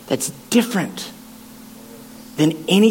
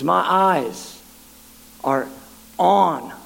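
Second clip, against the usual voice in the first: grieving voice of God; 5 semitones lower, 4 dB quieter than usual. Retold or imitated. Preacher voicing God heartbroken over injustice, low and soft. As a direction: speak it heavy with quiet grief.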